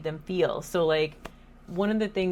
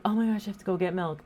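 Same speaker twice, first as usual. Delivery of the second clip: rushed mom; much faster than usual. Retold or imitated. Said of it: "And I go".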